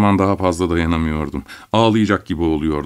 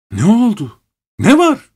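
much higher and louder yell; shouted; 13 semitones higher, 5 dB louder than usual. A narrator's reading. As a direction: shout the questions in alarm. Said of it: "diye bağırdım". (telaşla bağırarak)

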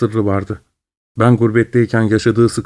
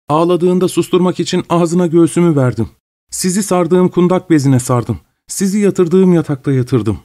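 higher, slowing, a hint of tears in the voice; mother pleading in a raised, tearful voice; 7 semitones higher than usual. Mother defending the orphan to her son, tearful and high.

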